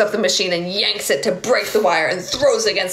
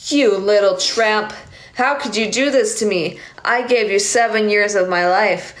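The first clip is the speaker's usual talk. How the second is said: hurt angry confrontation; 4 semitones higher, slower than usual. Acted. Johnny confronts Lisa over the taped call, hurt and angry. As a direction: lash out at her for the betrayal.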